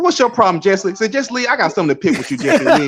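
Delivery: friendly Southern accent impression; the speaker's Southern accent. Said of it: "we both got that Southern accent".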